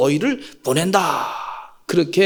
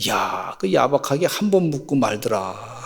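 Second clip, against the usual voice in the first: grumbling in-laws; 6 semitones lower, 3 dB quieter, slower than usual. Acted. In-laws complain about the bride.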